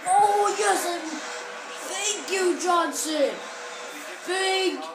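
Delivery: high, excited thanks to a teammate; real burst of grateful relief; relieved cheer. Real, not acted. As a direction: cheer the player who saved you. Relief after a scored play.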